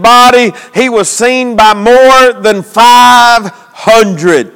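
emphatic preacher's cadence; preaching. Real, not acted. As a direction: drive the point home to the congregation.

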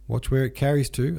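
stern. A narrator's reading. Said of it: "a soldier nearby said sternly".

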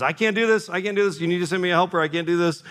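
high, whining protest; pleading Moses. Retold or imitated. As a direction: beg to get out of the job, voice up high. Moses voiced pleading with God.

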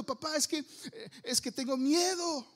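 high, lightly acted little boy; crying child. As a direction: imitate a scared son pleading with dad. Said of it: "y sigue llorando".

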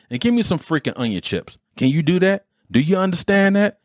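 a touch of a drill instructor barking an order. Retold or imitated. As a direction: order like a fresh boot camp grad. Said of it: "talking like the drill instructors".

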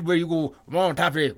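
lightly voiced cartoon sidekick, garbled; Topsy. Co-host imitating Cotton's excited buddy, rough impression. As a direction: attempt a slurred character impression, loosely. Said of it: "You, you do a better Topsy".

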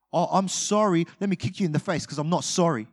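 a hint of fake sorry, then a jab; mock sorry. Arrogant person apologizing to someone, mock sorry. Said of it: "So arrogant".

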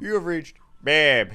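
a hammed-up answering machine intro; voicemail greeting voice.

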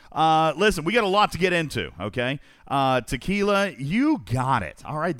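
ordinary talk, nothing marked

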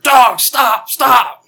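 high-pitched call out the door; retold yell. Wife and kid yelling out the back door, retold yell. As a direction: yell frantically at the dog, imitating. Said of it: "they yell out the back door".

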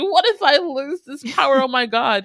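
loud, high mock alarm; hammed-up panicked tirade. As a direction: rant as Iggy overwhelmed by new powers. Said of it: "goes into this whole tirade".

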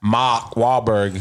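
put-on slow Boston accent; Boston accent, drawn-out vowels; mock Boston accent. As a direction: say it like a Bostonian, slowly. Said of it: "Why you don't sound like that".

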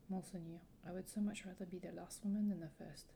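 lightly acted French-accented heroine. Young ward answers her guardian's confession, French accent. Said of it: "I really enjoyed your French accent".

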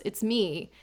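faint, low and soft; barely manage it, drained of strength; weak. Retold or imitated. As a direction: feeble low reply. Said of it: "very weakly goes".

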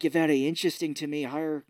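a lightly done bad Irish accent. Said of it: "terrible Irish accent".

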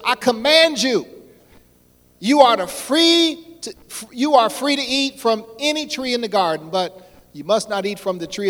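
loud and high command; commanding God. Acted. Preacher voicing God's command to Adam, loud and high. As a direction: proclaim it like an order from above.

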